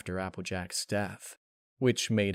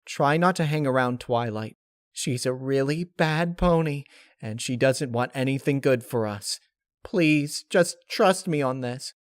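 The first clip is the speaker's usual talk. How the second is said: high, earnest pleading pony voice; high voiced Pinkie begging her friend; 4 semitones higher, 4 dB louder than usual. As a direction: beg her to trust you. Pinkie pleading with Rainbow Dash.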